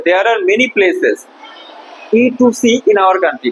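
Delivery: slow, deliberate model sentence; slow reading. Shown as a demonstration. Teacher reading the textbook line slowly to the class. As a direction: spell it out slowly for the pupils. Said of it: "দেখো কি বলছে".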